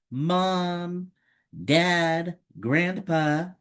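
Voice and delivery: put-on high, plaintive child calling Mom, Dad, Grandpa; calling out for family. Child in pain calls for parents, high and plaintive. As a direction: call out for your family in pain.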